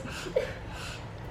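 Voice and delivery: soft, voiceless imitated sobbing; mock sniffling sobs. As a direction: fake a quiet little cry. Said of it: "she starts going like this".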